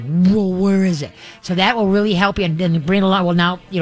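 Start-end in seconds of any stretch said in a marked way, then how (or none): 0.0-1.1 slow, lightly voiced curious dog; a hint of a puzzled dog looking around; speaking for a dog that hears a squeaker, slow; dog's thoughts. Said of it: "that dog looks at you like".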